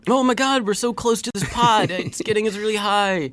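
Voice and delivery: high, whiny mock panic; mock stoned cop. Host mocks stoned French police in a high whiny voice. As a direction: ham up a cop who thinks he's high. Mocking stoned cops' complaint.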